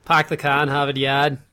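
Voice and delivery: put-on toned-down Boston accent. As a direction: classic Boston line, dropped r's. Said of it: "That's more like it".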